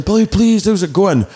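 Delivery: high-pitched mock call-out; imitated shouted greeting. Fans shouting at him by nickname, high mock call. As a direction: hail someone by nickname, mimicking fans. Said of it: "people shouting at him".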